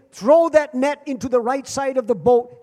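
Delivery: preaching at full voice to the congregation; loud proclamation. Acted. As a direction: call it out like God's own order. Preacher proclaims God's command.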